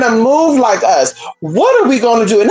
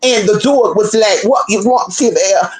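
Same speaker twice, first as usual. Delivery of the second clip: put-on proper, French-like accent with odd vowels; more proper imitation. Mimicking the proper-sounding lady's dog story, French-like accent. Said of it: "sounded a little more proper with it".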